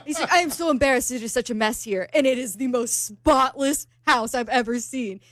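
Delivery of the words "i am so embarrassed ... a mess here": lightly imitated Argentinian accent. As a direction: quote him with a hint of an Argentinian accent. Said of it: "You love her Argentinian accent".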